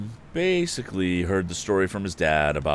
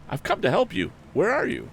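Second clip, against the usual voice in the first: cried out; 14 semitones higher than usual. A narrator's reading. Tom calling into the dripping woods, a high cry. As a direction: shout it, searching for someone. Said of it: "cried the lad again".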